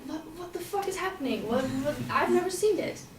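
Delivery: a touch of retold panic; panicked. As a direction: blurt it in a rush of panic. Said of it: "I started panicking myself".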